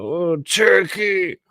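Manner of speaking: high, loud, slow mock exclamation; mocking townsfolk. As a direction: drag out Cherokee like an exasperated local. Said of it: "you know".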